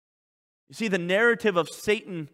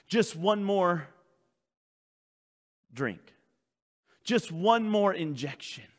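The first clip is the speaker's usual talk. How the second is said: tempting Satan; 2 semitones lower than usual. Acted. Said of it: "he'll keep telling you".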